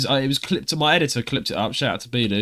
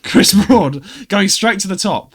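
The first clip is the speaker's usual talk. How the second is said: higher, louder, slow laughing reaction; laughing disbelief; 6 semitones higher, 7 dB louder, much slower than usual. Real, not acted. Reacting to the guest suggestion, laughing. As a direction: laugh at the ambition.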